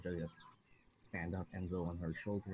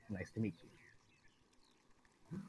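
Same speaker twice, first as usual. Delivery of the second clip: slow, flat, soft greeting; deadpan voice; 5 dB quieter, much slower than usual. Acted. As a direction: say it dead slow and quiet. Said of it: "I just give Dimitri, like, a deadpan voice".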